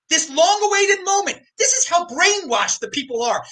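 rile the viewers up, voice climbing; worked-up rant. Real, not acted. Host ranting to stream viewers about normie news, worked up.

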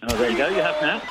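distant caller voice on a phone line; far from mic. Real, not acted. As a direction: sound like you're far from the microphone. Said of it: "it sounds like you're far away".

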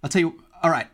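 mildly fearful elf giving in; lightly acted nervous agreement; terrified elf. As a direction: give in with a touch of fear. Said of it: "he's quite terrified now".

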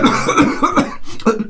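sputtering cough on water; choking cough. Acted. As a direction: fake a drink going down the wrong way. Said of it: "mi è andata di traverso l'acqua". (tosse da acqua di traverso)

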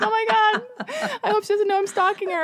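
high, fluttery mock-panicked fan; hammed-up anxious fan whisper-worry; nervous stalker fan. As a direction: play a flustered superfan. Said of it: "your number one fan who's like".

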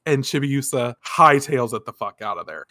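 usual speaking voice

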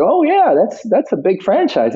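high, bright Cockney quote; Cockney accent. Retold or imitated. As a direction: keep Jason's Cockney going. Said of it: "his, you know, Cockney".

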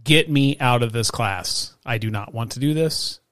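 slow, emphatic retold demand; deliberate, insistent self-quote; retold firm demand. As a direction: lay down the demand word by word. Retold demand to principal mom.

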